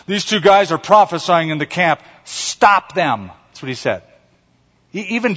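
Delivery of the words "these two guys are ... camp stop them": higher-pitched, urgent complaint to a leader; mildly hammed-up alarm; indignant Joshua. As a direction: report it like an alarmed tattletale, then demand action. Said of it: "So he goes to Moses and he goes".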